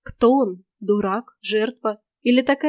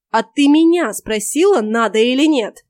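loud, angry retort, higher; barking; 3 semitones higher, 8 dB louder than usual. A narrator's reading. Heroine barks at the old witch, loud and angry. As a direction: snap back at her, loud. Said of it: "рявкнула я".

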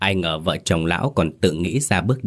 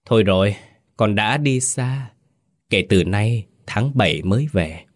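pouting mockery. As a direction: tease the arrested man with a pout. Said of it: "bĩu môi".

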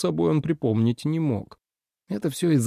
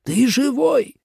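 much higher, overjoyed father; relieved exclamation; 13 semitones higher, slower than usual. A narrator's reading. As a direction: cry out in disbelieving relief. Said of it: "воскликнул Джу старший". (отец радостно восклицает, высоко)

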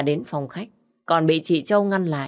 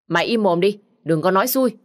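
louder, sharp snap to shut up; snapping; 3 semitones higher, 5 dB louder than usual. Acted. Master snaps at the maid in the car, sharp louder rebuke. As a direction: cut her off angrily. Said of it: "lại quạt nó".

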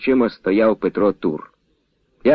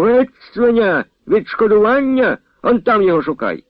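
loud shout; 10 semitones higher than usual. A narrator's reading. Colonel's servant drives Nechypir off, shouting furiously. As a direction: bellow him out of the yard. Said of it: "голосно крикнув".

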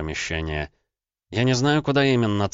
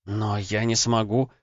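unsure; 4 semitones higher, slower than usual. Acted. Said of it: "неуверенно проговорила она".

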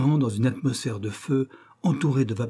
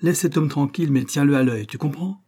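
a much higher, louder call to the stoker; 4 semitones higher, 4 dB louder than usual. Acted. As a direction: call across the engine. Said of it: "Il appela son chauffeur". (le mécanicien interpelle son chauffeur, plus haut et fort)

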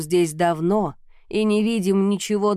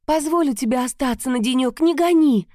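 rising, desperate plea; pleading; 6 semitones higher, 4 dB louder than usual. Acted. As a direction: beg her not to send you away. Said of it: "взмолилась я".

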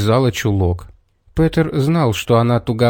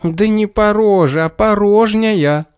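shout; 9 semitones higher than usual. A narrator's reading. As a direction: yell it to correct him. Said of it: "крикнул Петр".

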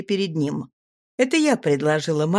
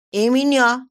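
high little squeaky cry, louder; squeak; 6 semitones higher, 5 dB louder than usual. Acted. Little girl squeaks from behind, begging to come along. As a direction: pipe up like an eager small girl. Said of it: "пискнула из-за моей спины".

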